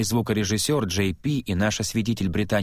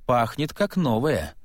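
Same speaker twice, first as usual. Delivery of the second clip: put-on slow, drunken announcement; tipsy, drawn-out words; 4 semitones higher, slower than usual. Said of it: "пьяным голосом объявил я".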